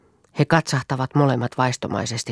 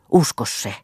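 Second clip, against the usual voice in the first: whispered plea. Acted. Pleading lover repeats plea.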